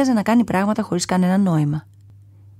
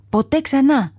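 lion shouting; 7 semitones higher, slower than usual. A narrator's reading. Lion refusing the trainer's whip, defiant shout. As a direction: roar it out: never again. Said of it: "φώναξε το λιοντάρι".

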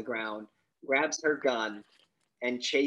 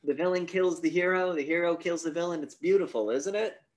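slightly hammed-up, higher proposal; mock showman's pitch; 5 semitones higher, 3 dB louder than usual. Gunman pitches a duel to the cop, mildly theatrical higher voice. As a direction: sell it lightly, pitch lifting to the end.

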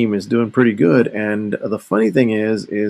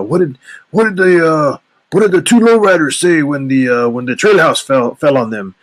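telling the lowrider joke in a higher, louder put-on voice; friend telling joke; 6 semitones higher, 5 dB louder than usual. Retelling his friend's favorite joke to listeners, higher and louder. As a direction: set up the punchline in the buddy's voice. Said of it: "his favorite joke was always the lowrider joke".

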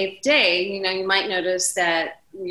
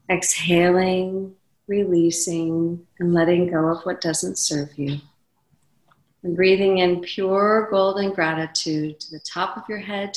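calm meditative tone. Shown as a demonstration. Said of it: "Would you like to do a very quick golden pause".

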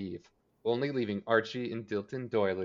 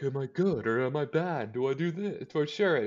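higher-pitched, hand-wringing Betty send-up; mock agonizing; 5 semitones higher than usual. Host mimics Betty dithering over her choices, mock agonizing.

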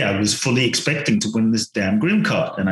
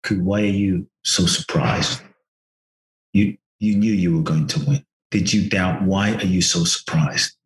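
gentle inner voice; 4 semitones lower than usual. Retold or imitated. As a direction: let the inner voice ask tenderly. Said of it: "this gentle voice that says".

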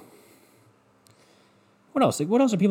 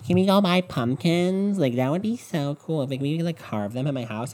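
imitating Dano; 4 semitones higher than usual. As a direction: wheedle it like she's begging a favor. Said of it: "Dano coming to me".

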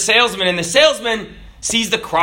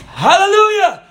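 higher, louder "Hallelujah" called out; loud command; 11 semitones higher, 4 dB louder than usual. Acted. Priest calls the car into motion, loud. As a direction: call it out to start the car. Priest shifts gear again.

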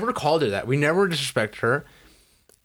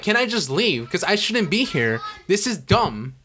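exasperated, higher-pitched complaint; retold angry outburst; 4 semitones higher than usual. Student grabbing his stuff to leave class, exasperated retold complaint. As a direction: demand to leave, fed up. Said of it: "I yelled at her like that".

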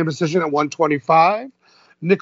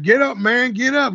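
put-on taunting Southern accent, pitched higher; mock Southern taunt; 6 semitones higher than usual. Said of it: "He's got a real deep Southern accent".

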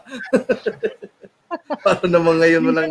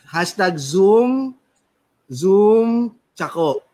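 whispered; 3 semitones higher, much slower than usual. Acted. Reading out the trending hashtag.

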